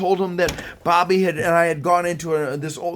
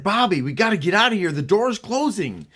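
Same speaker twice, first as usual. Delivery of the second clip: higher, hurried warning to a friend; urgent warning; 5 semitones higher, 3 dB louder than usual. Retold or imitated. Kid warning Bobby the door is closing, urgent. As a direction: urge him out, pitch raised.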